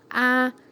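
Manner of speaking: "alimentou" broken into a-li-men-tou; "alimentou" spelled out in spoken syllables; split into syllables. Shown as a demonstration. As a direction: say "alimentou" syllable by syllable, each one apart. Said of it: "Então, quando eu separo, fica".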